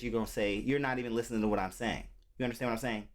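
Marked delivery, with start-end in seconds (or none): 0.6-2.0 lightly demonstrated plain-spoken voice, a little lower; talking like this, properly. Shown as a demonstration. Reactor answering commenters who question his talk, in a lightly lowered straight voice. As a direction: lightly drop the street voice for a lower, straighter one. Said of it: "if I talk to you like this".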